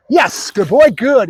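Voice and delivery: high, lilting dog praise; excited praise. Real, not acted. Trainer rewards Bruno for barking, excited praise. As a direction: reward the bark with delight.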